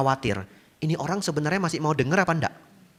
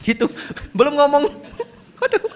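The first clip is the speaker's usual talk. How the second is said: high laughing exclamation; 4 dB louder than usual. Real, not acted. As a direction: laugh it off in disbelief. Laughing at the challenge. (tertawa geli)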